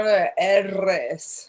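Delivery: "R's" said the Spanish way, as "erres"; name the R's in Spanish, slowly; "R's" pronounced like Spanish "erres". Shown as a demonstration. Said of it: "in Spanish, it's the R's".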